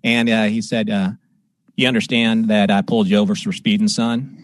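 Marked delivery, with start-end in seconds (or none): 1.8-4.4 lightly imitated Texas trooper accent; brisk mock-official Texas accent; trooper's accent. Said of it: "you have the accent".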